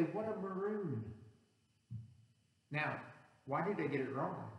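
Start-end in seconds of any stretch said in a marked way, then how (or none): 0.0-1.1 Bugs Bunny. Retold or imitated. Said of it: "As Bugs Bunny would say".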